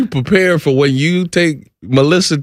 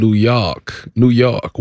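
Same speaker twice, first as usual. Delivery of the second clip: put-on low New York accent; lightly mimicked New York accent; 4 semitones lower, much slower than usual.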